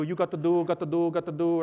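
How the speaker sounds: lightly voiced bossy matriarch; bossy church lady. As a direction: chivvy the others along. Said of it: "she tells everybody else what to do".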